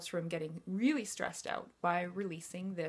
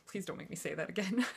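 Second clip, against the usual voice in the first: laughing through the words, a bit faster; laughing plea; faster than usual. Real, not acted. Coach laughing at the long hormone name, laughing plea. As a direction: giggle out a plea to be spared the word. Laughing after tongue-twister word.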